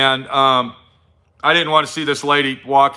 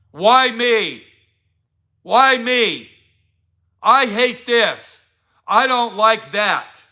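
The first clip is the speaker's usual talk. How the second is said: whiny complainer; 4 semitones higher, much slower than usual. Retold or imitated. Mocking someone who lost focus.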